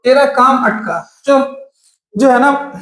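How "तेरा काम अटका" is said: slow mnemonic recital. Shown as a demonstration. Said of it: "एक simple सा एक line याद रखिएगा".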